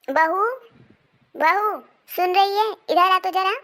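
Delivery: high, loud and slow, calling across the house; a drawn-out loud call for the daughter-in-law. Acted. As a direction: summon the bahu from another room. Mother-in-law calls daughter-in-law.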